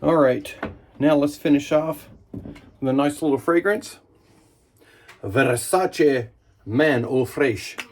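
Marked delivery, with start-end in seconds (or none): 5.2-7.8 drawn out like a perfume ad; slow luxurious name read. Acted. Naming his cologne like a slow, luxe perfume ad. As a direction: savour each syllable of Versace slowly.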